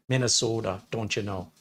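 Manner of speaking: lightly put-on Minnesota accent; mild mock Minnesota accent. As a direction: toss in a rough Minnesota accent. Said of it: "I don't do the accent very well".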